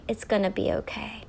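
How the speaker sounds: softly reassuring parent; quiet, soothing promise; gentle reassurance. Acted. Parent reassuring a hurt child.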